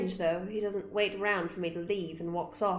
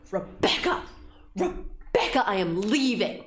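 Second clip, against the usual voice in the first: calling out; 4 dB louder than usual. Pretend.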